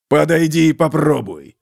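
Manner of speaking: menacing dwarf challenge; growled. Acted. Slayer growling a dare at the soldiers. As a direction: dare them to come at him. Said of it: "прорычал истребитель".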